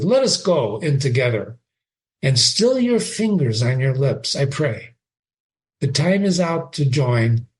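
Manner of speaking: reading Shakespeare aloud with feeling; dramatic reading. Acted. Teacher reading Horatio to the class, dramatic reading. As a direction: give Horatio's line a lively read. Reads Hamlet's closing lines.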